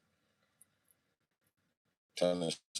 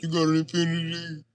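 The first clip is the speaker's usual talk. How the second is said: high, drawn-level mock gushing; mock impressed; 9 semitones higher than usual. Supposed to get out over her car, mock impressed. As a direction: put on a high voice of feigned awe. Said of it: "and be like".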